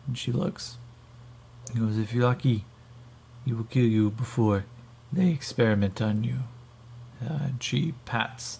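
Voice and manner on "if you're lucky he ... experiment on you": put-on Russian-accented grim warning. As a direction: deliver a threat in a Russian accent. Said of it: "the Alterans are now Russian".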